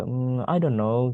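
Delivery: slow, unsure musing; a hesitant, drawn-out "Hmm, I don't know"; confused. Shown as a demonstration. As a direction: sound puzzled and draw it out. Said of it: "Misalkan kalau bingung".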